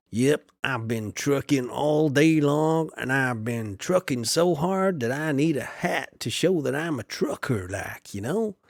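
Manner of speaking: slow, lightly voiced trucker. Farmer trying on a trucker hat, lightly voiced slow trucker. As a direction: play a tired trucker, easy and slow. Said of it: "That's my trucker's voice".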